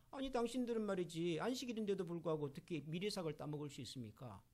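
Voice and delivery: lightly voiced, soft-spoken courteous complaint; a mild hint of a dignified Pharisee objecting; polite protest. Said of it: "점잖게 그렇게 항의를 했습니다". (점잖게 항의하는 바리새인을 살짝 흉내)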